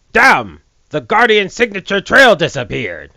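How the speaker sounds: mock flat delivery of the game line; imitating an unconvincing line reading. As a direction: read it deadpan like the actor. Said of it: "could have acted that a little better".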